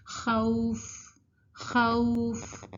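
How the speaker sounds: خوف drawn out with a gentle a-to-u glide; soft leen. Shown as a demonstration. Teacher modelling the leen letter, long soft glide. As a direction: stretch خوف softly as "khauuf". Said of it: "ہم اس کو پڑھیں گے softly, نرمی سے".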